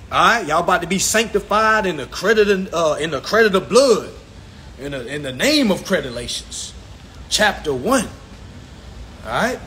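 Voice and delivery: playful preacher's call; half-joking church blessing; mock sermon. Teacher to class, a playful mock sermon. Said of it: "might take you to church too".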